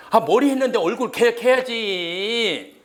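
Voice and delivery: loud, high, drawn-out mock protest; mock scolding insistence. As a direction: insist loudly, stretching it out as if obvious. Teacher mock-scolding to make memory link.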